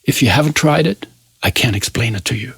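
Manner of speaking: kindly. Retold or imitated. Arts student answering what LSD is like, kindly. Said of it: "very kindly and he said".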